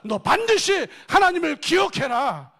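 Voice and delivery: slow, high full shout; shouted command. Acted. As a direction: shout it into your own heart. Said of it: "아담이 스스로에게 얘기하고 있는 거예요".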